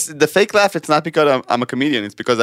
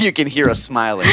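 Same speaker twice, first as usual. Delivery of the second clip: fake laugh; 5 semitones higher than usual. Shown as a demonstration. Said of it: "Matan's fake laugh".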